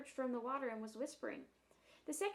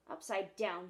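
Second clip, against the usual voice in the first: indignant snort; 4 semitones lower, 4 dB louder than usual. Acted. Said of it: "he snorted".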